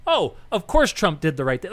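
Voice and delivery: lightly voiced, sure-of-itself reader saying "right thing"; a hint of a smug reader on the right; mock rightist reader. Mocking a reader on the right who is sure Trump did right, lightly voiced. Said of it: "If you're on the right, you read the article and go".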